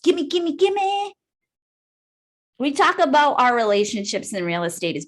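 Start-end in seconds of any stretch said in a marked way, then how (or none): 0.0-1.1 imitating a grabby agent, pitch climbing on each gimme; mock greedy. Mocking a pushy agent who only asks for leads, higher greedy gimme. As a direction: whine gimme like a greedy child, rising higher each time.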